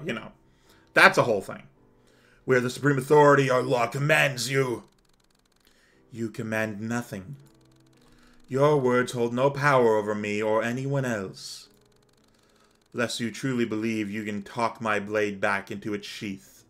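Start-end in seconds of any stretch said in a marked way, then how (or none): 2.5-4.9 imperious acted proclamation; pompous councilor laying down the law; commanding councilor. Plays the councilor in the story. 6.1-16.6 lightly voiced stern avenger; a restrained attempt at a cold, commanding warrior; Gabriel. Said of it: "I can't do the Gabriel voice".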